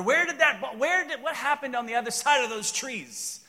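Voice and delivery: a hammed-up puzzled cry; mock wondering. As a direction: call out after the lost ball in wonder. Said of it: "I wonder".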